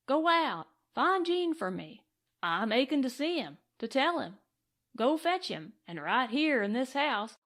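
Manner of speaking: eager, pressing speech; lightly voiced excited cowboy. Cowboy to old friend, eager and lightly voiced.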